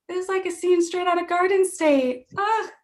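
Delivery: high-pitched, mock-emotional gush; hammed-up weepy sentiment; tearfully moved. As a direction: retell it as an overcome, teary sigh. Tearful friend moment retold while crying.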